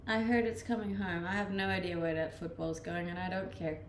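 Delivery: usual speaking voice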